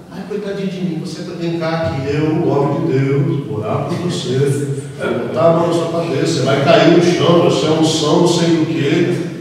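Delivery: lightly mocking a pastor who babies the church; mock coddling pastor. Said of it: "tem muitos pastores que gostam da igreja assim, infantilizada". (imitação leve e debochada de pastor que mima a igreja)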